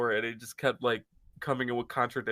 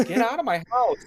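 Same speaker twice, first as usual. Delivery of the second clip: loud, higher "get out" yell at intruders; mock threat; 9 semitones higher, 7 dB louder than usual. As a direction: yell them out of your house like a threatened host. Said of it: "I'm getting a knife".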